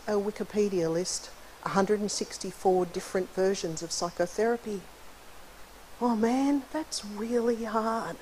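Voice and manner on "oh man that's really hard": higher, drawn-out mild groan of overwhelm; slow, high-pitched "this is too much" reaction; mock dismay. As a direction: stretch it out, pitched up, as if daunted. Mock reaction to overwhelming therapy list.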